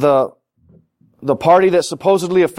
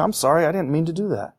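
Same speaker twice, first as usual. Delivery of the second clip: soft sincere apology; 6 dB quieter than usual. Retold or imitated. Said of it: "Just say".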